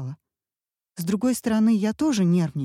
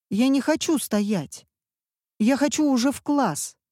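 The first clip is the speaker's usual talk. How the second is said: put-on whining boy; 6 semitones higher than usual. A narrator's reading. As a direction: whine like a bored child. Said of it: "возмущался мальчик". (мальчик капризно возмущается)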